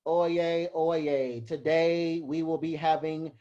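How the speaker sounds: a mildly flat, bored town crier; monotone herald. Shown as a demonstration. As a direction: read it out with no rise and fall. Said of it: "put some rise and fall in your voice".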